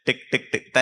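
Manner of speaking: three short, even ticks; imitated watch ticks. Shown as a demonstration. Teacher repeating what a child heard, imitated ticking. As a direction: tick along like a watch.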